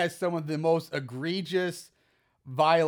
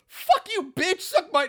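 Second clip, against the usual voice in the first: offensive version; 11 semitones higher, slower than usual. Pretend. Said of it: "the offensive, like, insulting way to say".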